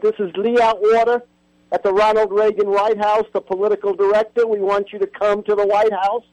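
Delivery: lightly put-on heavy Southern accent, as a political operative on the phone. Reagan's political director phoning the professor, in a mock heavy Southern accent. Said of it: "his very heavy Southern accent".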